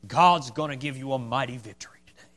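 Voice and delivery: lightly sarcastic mock blessing; sarcasm. Micaiah humoring the king about battle, mildly sarcastic. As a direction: feign encouragement with a touch of sarcasm. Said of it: "a little bit of sarcasm in his voice".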